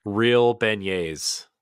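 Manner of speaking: drawn out, slow and delighted; savoring. Real, not acted. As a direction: savor each word slowly. Savoring the words slowly.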